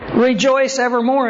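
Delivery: put-on high, giddy retelling of a chuckling old man; lightly acted giggly delight; mock laughing old man. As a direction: say it as if laughing to yourself. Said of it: "he starts laughing to himself".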